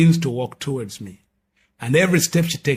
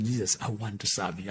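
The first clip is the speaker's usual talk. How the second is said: soft, lowered, humble address; quiet retold prayer; 4 semitones lower, 8 dB quieter than usual. New convert talks to Jesus as told, quiet prayer. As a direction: say it low, as a private prayer.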